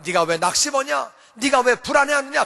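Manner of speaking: firm rebuke to his own soul; commanding oneself. Shown as a demonstration. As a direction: order your soul to stop despairing. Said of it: "자기가 자기에게 명령하는 거예요". (자기 영혼에게 단호하게 명령하듯)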